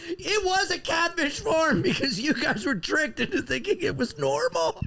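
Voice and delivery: usual speaking voice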